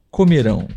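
COMERÃO with the weight on RÃO; stress on last syllable. Shown as a demonstration. Teacher modelling the future tense for learners, final-syllable stress. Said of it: "porém a sílaba tônica é diferente".

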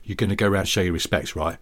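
lightly voiced, halting Cockney reverence; solemnly instruct, as a mock Cockney elder; Cockney respect. Cockney tells mate to honour old Betty, mock-solemn. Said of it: "someone's mother in Cockney world".

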